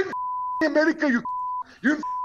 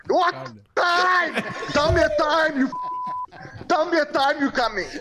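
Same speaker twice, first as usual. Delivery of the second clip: real angry shout; angry demand; 4 semitones higher than usual. Real, not acted. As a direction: demand it at full force. Furious father demands a time.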